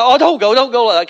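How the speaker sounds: mock clingy God. Preacher imagining an emotional God begging believers to stay. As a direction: ham up a needy, begging God. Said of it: "If God was emotional, like".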